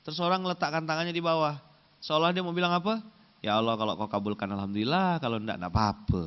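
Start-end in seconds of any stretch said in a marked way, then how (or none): 3.4-6.2 half-hearted prayer. Shown as a demonstration. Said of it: "Gimana intonasinya?".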